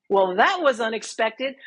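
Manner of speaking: dry, matter-of-fact, a touch of a rise at the end; deadpan understatement. Retold or imitated. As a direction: play it as a polite, awkward understatement. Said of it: "with that exact tone".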